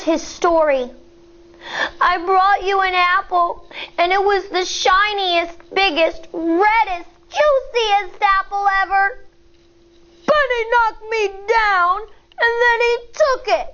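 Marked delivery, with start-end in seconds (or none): 2.0-9.0 put-on upset child. Upset child tells his story. 10.3-13.7 put-on higher, small child's voice, rushing the last words; a hurt kid blurting out the wrong done to him; upset little boy. Upset child tells his story.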